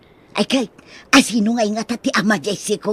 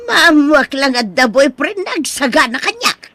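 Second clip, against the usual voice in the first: tearful, louder plea; crying plea; 3 semitones higher, 3 dB louder than usual. Acted. Mother warning her daughter, tearful plea. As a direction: voice breaking with worry.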